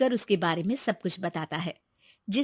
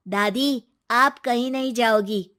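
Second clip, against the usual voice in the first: louder, insistent grandson voice; 3 semitones higher, 6 dB louder than usual. Acted. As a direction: plead with grandma to stay.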